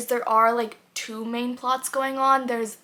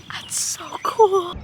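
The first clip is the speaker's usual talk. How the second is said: excited; 9 semitones higher, 6 dB louder, much slower than usual. Real, not acted. Spotting a rare bird.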